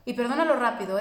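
a hint of impatient preachiness; mock pushy demand. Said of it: "lo único que se te ocurre decir es". (amiga exigente imitada, tono mandón)

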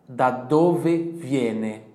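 very slow, loud, stretched; slow model question. Shown as a demonstration. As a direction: drill the question slowly. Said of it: "Ele vai te perguntar". (pergunta lenta e alta para repetir)

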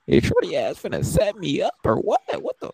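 high and loud suspicious alarm; retold alarm. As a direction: sound like you think you're being set up. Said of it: "I'm like".

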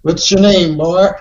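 lightly voiced slave-master parody; mock-demanding overseer; Roots overseer. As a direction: play at being the overseer. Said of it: "are you doing a Roots reference?".

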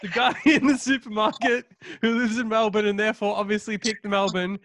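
mock TV host, high and loud, laughing; hammed-up broadcaster through giggles; laughing announcer. Real, not acted.

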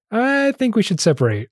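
retold in a high, put-on woman's voice; mock high voice. Girlfriend breaking up with her partner, mock high voice. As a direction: pitch it well up, imitating the girlfriend. Acts out Claire's breakup line.

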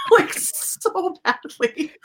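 high-pitched, drawn-out yearning with a laugh; giddy, slow, high-pitched emphasis; gushing longing. Real, not acted. Gushing about wanting a spin-off.

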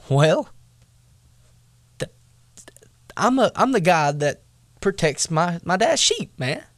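high, earnest protest; young David. Retold or imitated. David answering his brothers, high and earnest. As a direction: pitch it up, a kid defending himself. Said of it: "David comes back and says".

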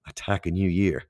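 briefly put-on American accent; mock American motivational accent. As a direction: slip into a playful American accent. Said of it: "I don't know why I do the American accent".

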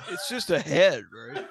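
laughing through the words; chuckling in disbelief. Real, not acted. Laughing disbelief about the body.

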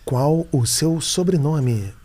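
slow, measured machine announcement. Retold or imitated. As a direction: speak like a parking ticket machine. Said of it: "eu fazia a voz da máquina".

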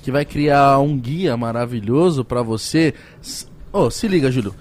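upbeat sponsor pitch; ad read. Acted. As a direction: sell it like a host ad read. Reads sponsor ads. (leitura de publicidade animada)

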